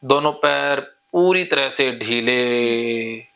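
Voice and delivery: repetitive suggestions with long drawn-out vowels; hypnotic induction. Real, not acted. Hypnotist deepening a client's leg relaxation, hypnotic drone. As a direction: lull them with slow, stretched key words.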